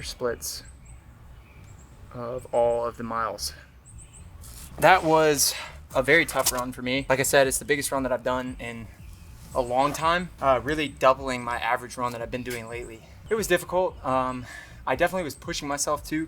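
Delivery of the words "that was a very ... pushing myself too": out of breath. Real, not acted. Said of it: "oh my gosh, I'm dying".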